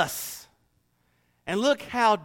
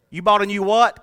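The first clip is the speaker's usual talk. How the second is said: puzzled Southerner; 3 semitones higher, 5 dB louder than usual. Pretend. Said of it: "They talk different".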